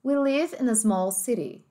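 slow, rhotic American English; American accent. Shown as a demonstration. Teacher showing students the American accent, slow and clear. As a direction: say it the American way, r fully sounded.

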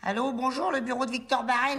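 Parigot phone greeting; slipping Parigot accent. Acted. Trainee rehearsing the greeting, Parigot accent slipping out. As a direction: let the working-class Paris accent show. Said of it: "mais fais gaffe à l'accent".

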